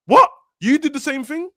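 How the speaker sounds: high incredulous disbelief; incredulous what. Retold or imitated. Mocking hypocrite creators, high incredulous disbelief. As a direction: pitch it up in shocked disbelief.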